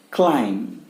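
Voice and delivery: "क्लाइंब" as klime, ending on M; silent B. Shown as a demonstration. Teacher introducing next word, silent B. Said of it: "pronounced as".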